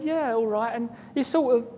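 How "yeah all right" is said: rough attempt at a Polish accent; a light Polish accent on a casual reply; tentative imitation of a Polish neighbour's accent. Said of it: "he spoke, like, in a Polish accent".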